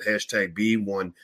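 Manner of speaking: "hashtag B one" spoken slowly, each part separated; spelled out slowly. Shown as a demonstration. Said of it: "type a hashtag B and the number one".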